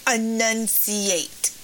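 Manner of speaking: very slow drawn-out "Enunciate"; scolding mom. Retold or imitated. Mother correcting her child, a slow drawn-out command. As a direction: stretch "Enunciate" out like a stern mother. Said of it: "She was like".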